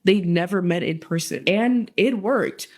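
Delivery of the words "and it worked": slow, weighty "And it worked"; slow deliberate callback. Shown as a demonstration. Narrator repeating the punchline to viewers, slowly. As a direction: lean on "And", drawing "And it worked" out slowly. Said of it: "like I said".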